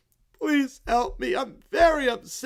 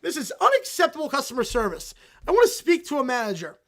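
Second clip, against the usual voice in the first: tantrum whine; 4 semitones higher, 7 dB louder than usual. Acted. Kid demands a manager from Lucy, loud tearful tantrum. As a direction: throw a bratty tantrum.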